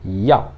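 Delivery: "yao" in a low, falling fourth tone. Shown as a demonstration. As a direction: say "yao" as a firm Mandarin falling tone. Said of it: "quarto tom, então ele é mais forte".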